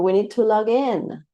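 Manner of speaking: "log in" with in stressed; teacher showing verb stress. Shown as a demonstration. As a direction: push in in log in. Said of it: "on the second part".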